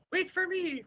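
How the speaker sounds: very high-pitched plea; squeaky high voice. Pretend. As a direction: squeak it out like a cartoon. Calling out high voice.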